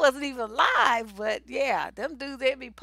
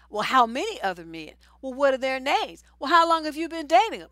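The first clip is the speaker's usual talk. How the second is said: rising insistence, louder with each question; mock interrogation; 3 semitones higher, 6 dB louder than usual. Man grilling his date about other men, mock-insistent. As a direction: pile on nosy questions, building in pitch.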